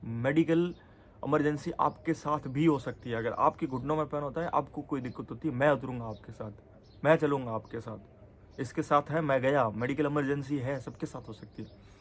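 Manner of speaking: firm, heated stand against the uncle; angry retort. Retold or imitated. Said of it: "फिर मेरे को गुस्सा आ गया". (गुस्से में ज़ोर से जवाब देना)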